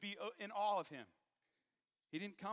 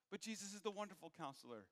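ordinary delivery

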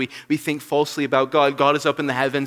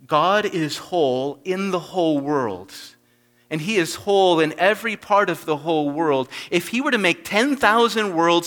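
reading a quotation; 5 semitones higher, 6 dB louder than usual. Acted. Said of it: "The Puritan George Swinnock puts it like this".

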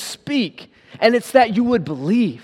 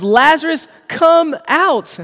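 high, louder call into the tomb; 7 semitones higher, slower than usual. Acted. Preacher voicing Jesus calling Lazarus loudly. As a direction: command the dead man out, ringing. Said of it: "he speaks loudly and he says".

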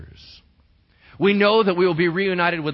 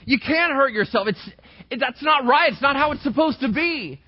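put-on higher, pleading with a hurting child; pleading parent; 8 semitones higher than usual. Parent pleading with a self-harming child, higher. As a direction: beg your child to stop hurting themselves. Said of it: "You keep saying".

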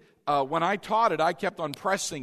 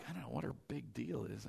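mock muttered thought; 8 semitones lower, 17 dB quieter, faster than usual. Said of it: "And I'm like".

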